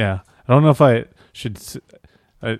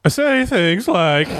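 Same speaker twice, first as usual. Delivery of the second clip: slow, high sage voice; wise old sage; 9 semitones higher, slower than usual. Shown as a demonstration. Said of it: "that's my sage voice".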